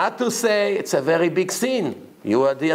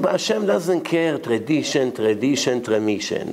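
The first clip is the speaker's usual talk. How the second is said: dismissive mockery; 2 semitones lower than usual. Rabbi brushes off their excuse.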